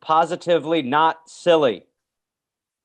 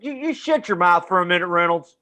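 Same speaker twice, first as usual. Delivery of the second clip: mock stern teacher; 3 semitones higher than usual. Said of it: "He's like".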